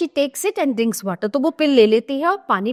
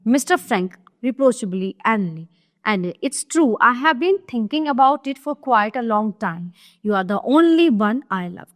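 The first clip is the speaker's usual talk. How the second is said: slow, deliberate reading of a stage script; slow classroom reading of a play; play read aloud; much slower than usual. Acted. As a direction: read each line out slowly for the class. Reads Mister Frank's reply.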